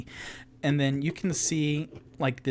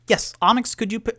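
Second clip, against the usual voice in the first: 1 Rock voice; 9 semitones higher, 6 dB louder, faster than usual. Acted. Rock voiced by game master.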